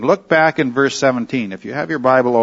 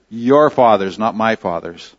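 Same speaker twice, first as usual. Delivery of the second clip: your fathers, not MY fathers; stress on my; 4 semitones lower than usual. Shown as a demonstration. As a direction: lean on MY to set them apart. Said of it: "But now he says".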